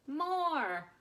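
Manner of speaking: loud chant of a demanding crowd; crowd shouting. Acted. Crowd of shoppers cheering the act, loud shouts.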